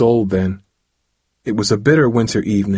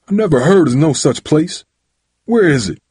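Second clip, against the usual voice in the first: raised, disbelieving challenge; demanding; 7 semitones higher, 4 dB louder than usual. A narrator's reading. Father doubts the pizza place exists, demanding. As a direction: demand proof angrily. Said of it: "Dad demanded".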